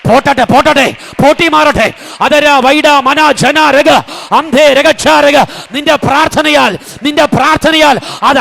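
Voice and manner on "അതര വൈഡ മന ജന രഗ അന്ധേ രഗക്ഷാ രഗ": praying in tongues. Real, not acted. Preacher prays in tongues.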